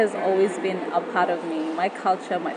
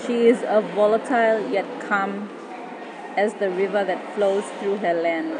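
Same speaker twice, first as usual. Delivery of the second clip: poem recitation. Acted. Spoken word poem over music.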